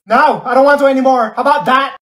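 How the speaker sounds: high, loud defiant refusal; petulant outburst. Acted. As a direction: yell it back in a huff. Hurt refusal in quarrel.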